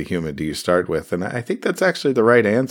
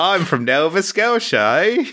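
mock Canadian accent; 8 semitones higher than usual. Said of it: "I can't do a Canadian accent".

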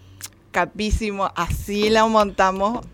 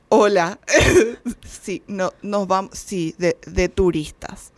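halting, lightly acted nerves; mock nervous traveler; 3 semitones lower, slower than usual. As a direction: stumble through your answer, trailing lower. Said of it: "Y era como que así". (imitando nervios, titubeando)

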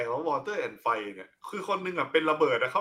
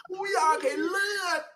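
bloodthirsty villain. Retold or imitated. Mocking the villain watching the whipping, high wailing shout. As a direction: wail like a cruel tyrant craving blood.

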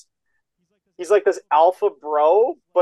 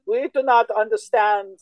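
slow mock Dutch accent, pitched up; 6 semitones higher, 3 dB louder, slower than usual. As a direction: put on a put-on Dutch accent, slowly. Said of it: "that was Amsterdam, dude. You nailed it".

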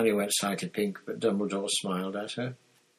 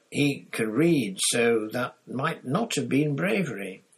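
lightly voiced old headmaster; kindly old wizard, gently chiding; a hint of a wise old headmaster; Dumbledore; 3 semitones higher, 4 dB louder than usual. Dumbledore's anecdote about his brother.

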